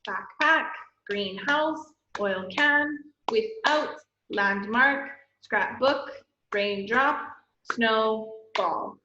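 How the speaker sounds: measured list, each word in two beats, as in RAIN-DROP. Shown as a demonstration. Teacher running through two syllable words, each like LANDMARK in two beats. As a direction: lightly separate the halves of SNOWBALL and each other word. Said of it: "they're just two syllable words".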